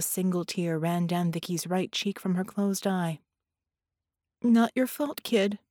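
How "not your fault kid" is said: choked voice. Acted. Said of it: "Vicky replied in a choked voice".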